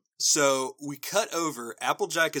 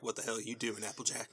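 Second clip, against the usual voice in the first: grumbling granny; 3 semitones lower, 12 dB quieter, faster than usual. Acted. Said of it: "Granny Smith, who's like".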